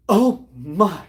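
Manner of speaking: gasp, then a loud mock "oh my"; mock shocked gasp. Teller mimics an onlooker who took offence, mock shocked. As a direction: play scandalised, briefly.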